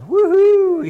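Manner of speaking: high, loud victory whoop; a real joyful woohoo; excited cheer. Real, not acted. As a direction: cheer like your team just won. Celebrating beating Michigan.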